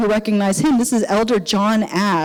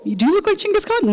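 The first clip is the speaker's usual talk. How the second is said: laughing tease; 10 semitones higher than usual. Retold or imitated. Teasing quote of friends.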